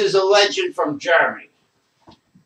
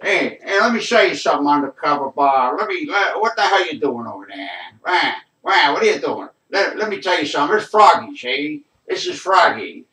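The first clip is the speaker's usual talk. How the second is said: Froggy impression; 2 semitones lower than usual. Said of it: "the guy that talks like this".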